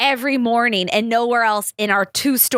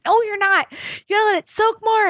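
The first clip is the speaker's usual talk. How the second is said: much higher, quick know-it-all correction; imitating bossy mom; 11 semitones higher, faster than usual. Mom telling her daughter she cleaned wrong, bossy. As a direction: rattle it off like a mom who knows best.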